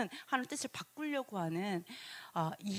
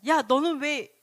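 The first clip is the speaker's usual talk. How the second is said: louder acted accusation; resentful challenge; 3 semitones higher, 6 dB louder, slower than usual. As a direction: call someone out in blame. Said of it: "그 모세를 원망했죠".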